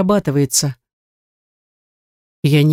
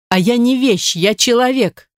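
indignant cry; 7 semitones higher than usual. A narrator's reading. Wife's tearful outburst at husband.

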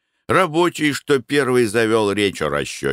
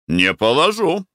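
ordinary delivery, nothing marked

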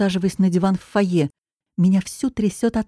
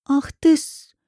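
angry hiss; 8 semitones higher, slower than usual. Acted. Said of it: "шипит он злобно".

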